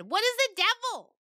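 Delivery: very high goat question; curious goat. Acted. Little goat asking the storyteller, very high. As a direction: ask wide-eyed like a kid goat.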